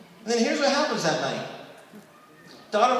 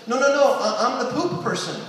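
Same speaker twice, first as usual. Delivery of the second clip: wife; 2 semitones higher than usual. Retold or imitated. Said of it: "wife's gonna say something like this".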